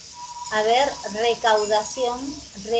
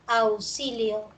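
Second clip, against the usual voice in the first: Auxilio drawn out slowly, syllable by syllable; slow syllable count; slower than usual. Shown as a demonstration. Teacher to class, counting phonemes: slow, drawn-out word. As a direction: stretch Auxilio out so students can count its sounds. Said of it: "Tenemos uno, dos, tres".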